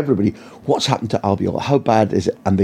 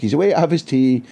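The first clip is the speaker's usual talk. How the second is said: mock PR officer; 5 semitones higher than usual. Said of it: "He didn't sound like a Scotsman".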